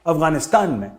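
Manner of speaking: a hint of a Pathan haggling over money; Pathan accent. Afghan side asking Pakistan for money, mock Pathan accent. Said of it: "वो Pathan accent में इनसे कुछ मांग रहा है".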